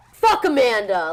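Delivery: slow, loud, laughing fake outrage; laughing mock curse. To her assistant, mock cursing the winner while laughing. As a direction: shout it while cracking up.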